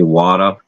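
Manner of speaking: "water" with a dropped r, like wata; Boston water. Shown as a demonstration. Showing a friend the local way to say water. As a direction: say "water" the New Bedford way, no r at the end. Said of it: "like, W A T A".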